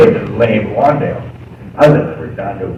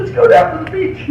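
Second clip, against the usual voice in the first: mock shout. Brother reacting to smelly apartment.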